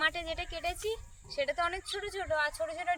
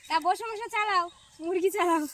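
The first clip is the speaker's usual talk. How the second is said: to someone hard of hearing; 2 semitones higher, 5 dB louder than usual. Real, not acted. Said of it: "ওই জন্য আমি জোরে জোরে বলছি".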